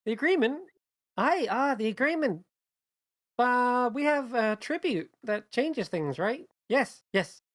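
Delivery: high, loud character shout; acted high-pitched shouting; April shouting. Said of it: "April shouting".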